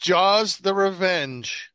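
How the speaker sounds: big announcer voice for the title; dramatic title. Pretend. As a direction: announce it like a movie trailer.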